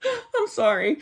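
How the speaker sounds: can't stop laughing while saying sorry; laughing apology. Real, not acted. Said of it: "Thank God I'm laughing".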